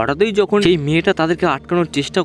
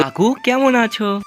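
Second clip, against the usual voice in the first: high-pitched, friendly hello to an uncle; chirpy, higher-pitched question; young girl's greeting; 8 semitones higher than usual. A narrator's reading. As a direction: greet him in a high girlish voice. Girl greets uncle in story.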